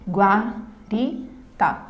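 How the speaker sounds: "Guarita" in three slow beats: gua, ri, ta; syllable by syllable. Shown as a demonstration. Teacher showing three syllables to students, syllable by syllable. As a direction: pause after each syllable of "Guarita". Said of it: "uma palavra composta por três".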